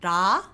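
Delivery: ra with a soft rolled L, no lips; soft Korean R. Shown as a demonstration. Teacher modelling the Korean consonant. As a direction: say ra with a light tongue flick. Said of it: "if I wanted to say".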